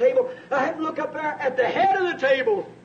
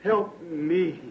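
imitated prayer; 3 semitones higher than usual. Preacher acting out his prayer in the hills, pleading then hushed. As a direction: plead with God, ending hushed.

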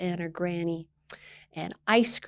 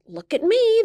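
put-on much higher, louder child's call; girl calling from the waves; 14 semitones higher, 4 dB louder than usual. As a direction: call out up high like a thrilled girl. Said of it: "the girl called".

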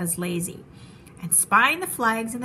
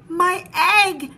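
high, loud cry of alarm; urgent elephant's outcry; excited shout; 8 semitones higher, 8 dB louder than usual. A narrator's reading. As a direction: shout it out, startled. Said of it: "shouted Horton".

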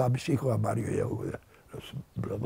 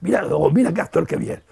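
higher and louder, calling his wife over eagerly; excited calling out; 8 semitones higher, 5 dB louder than usual. Retold or imitated. Husband calling his wife Pilar to the TV, excited and loud. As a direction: call Pilar over, thrilled by an actor.

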